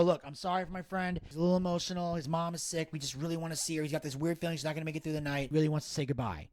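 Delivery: soft, apologetic plea, retold; smooth the nurse over quietly; sweet-talking. Friend asking nurse to let a son see his mother, sweet-talking. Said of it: "I sweet talk the nurse".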